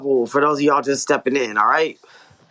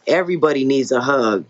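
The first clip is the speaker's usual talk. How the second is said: story narration. A narrator's reading. Author reading own novel to listeners, measured story narration. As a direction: read it as an author narrating dialogue and action.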